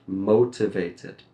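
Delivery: motivated ending in a clear "id". Shown as a demonstration. Teacher models the id sound, motivated with clear ending. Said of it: "id sound".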